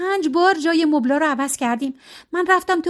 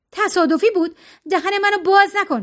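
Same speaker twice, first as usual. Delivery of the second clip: higher, scornful retort; angry scorn; 6 semitones higher than usual. A narrator's reading. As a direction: throw the excuse back at her. Serena rejects the excuse.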